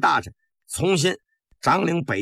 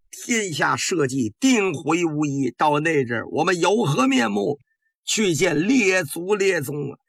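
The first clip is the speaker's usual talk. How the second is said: mildly tearful pleading. Acted. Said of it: "声泪俱下".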